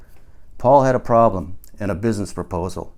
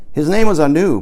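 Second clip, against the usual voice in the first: emphatic; 7 semitones higher, 8 dB louder than usual. Acted. Narrator voicing Paul's claim.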